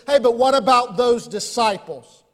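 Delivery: a questioning skeptic pressing hard; challenging critic. Retold or imitated. Critic challenging the preacher, mildly pushy. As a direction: throw the objection out like a doubter. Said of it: "put under examination for Jesus is".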